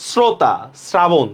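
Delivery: শ্রোতা and শ্রাবণ as "srota, srabon", slowly; slow শ্রোতা, শ্রাবণ, each opened on a hissed s; dental s demo. Shown as a demonstration. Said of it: "দেখছেন মিলছে".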